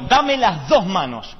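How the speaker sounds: slow, drawn-out mock solemnity; slow solemn request. Brother Tito solemnly asks the pastor for both hands. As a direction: stretch it out like a holy moment.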